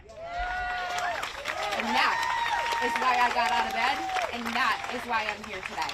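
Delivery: impassioned shout. Real, not acted. Grieving daughter rallies the crowd, shouting. Rally speech about her mother.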